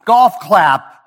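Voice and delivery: slow mock applause for the teen; sarcastic. Shown as a demonstration. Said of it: "a time and place to talk like that".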